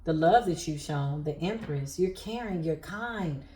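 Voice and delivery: choked up but keeping it steady; holding back tears. Real, not acted. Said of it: "I'm fighting back my tears".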